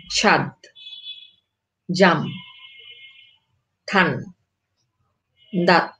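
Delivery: each word read slowly, ending clipped with no final vowel; word list with silent final vowel. Shown as a demonstration. Teacher reading example words to students, ending each one with no final vowel. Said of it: "আমরা বলি".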